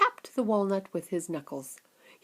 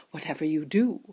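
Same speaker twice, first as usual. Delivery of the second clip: eager showman Wonka warning, raised and loud; excited Mister Wonka; 3 semitones higher, 7 dB louder than usual. Acted. Wonka stopping the children at the door, urgent and loud. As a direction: hurry them along with a bright warning.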